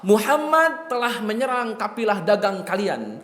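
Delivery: mock herald crying out the news; hammed-up alarm announcement; imitated dramatic proclamation. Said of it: "Dia teriak-teriak, pokoknya dibikin heboh".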